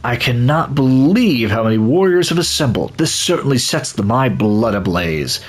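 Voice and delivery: a lightly put-on eager warrior, thrilled. Player voicing an eager warrior greeting the others, keen. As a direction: voice a fighter itching for battle. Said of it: "I don't know why I'm using this voice".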